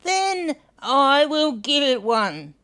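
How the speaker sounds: a kind bilby making a promise; Hunwick voice. Acted. Hunwick decides kindly.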